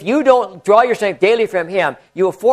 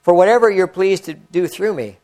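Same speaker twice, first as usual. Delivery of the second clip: prayer. Acted. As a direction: pray it sincerely to the Lord. Reads a written prayer.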